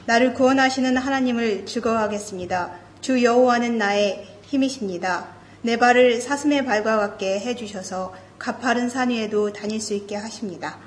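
rapid, rushed Bible recitation; fast scripture reading. Acted. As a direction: rattle through the passage quickly.

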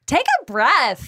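hammed-up condescension; condescending. Shown as a demonstration. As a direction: lean on each word to talk down. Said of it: "Let's practice saying it".

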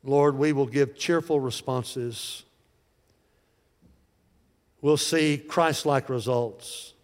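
slow, measured prayer, easing down at the end. Acted. Pastor praying for his congregation, slow earnest prayer. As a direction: pray it line by line with long pauses.

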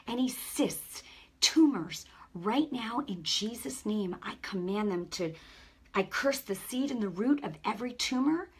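commanding deliverance prayer; laying a curse. Acted. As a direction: rebuke the sickness with authority.

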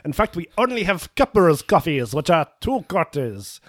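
put-on French waiter accent. Waiter demands two quarters, faint French accent. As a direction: scold the broke customer like an affronted French waiter. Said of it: "I am losing this accent".

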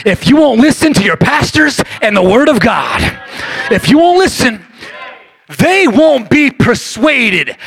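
loud, forceful preaching; booming preaching. Acted. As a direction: thunder the warning at them. Abraham's reply, preached shouting.

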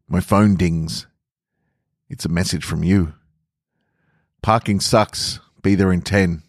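calm, even storytelling voice, reading fiction aloud; story narration. A narrator's reading. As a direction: let the listener picture the airport scene as you read. Reads short fiction aloud.

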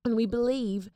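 put-on British girl's accent; earnest appeal in a British accent. Shown as a demonstration. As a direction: do a British girl pleading to listeners. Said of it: "Here, I'll do one for you".

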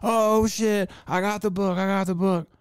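high, elated squeal of joy; excited squeal. Retold or imitated. Retelling buying the rare book, high excited squeal. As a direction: squeal like you just won. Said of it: "So I'm just like".

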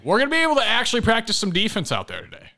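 high, fast and eager; excited. Real, not acted. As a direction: rush it out with excitement. Excited about practice.

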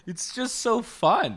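helium voice. Real, not acted. Talking right after inhaling helium.

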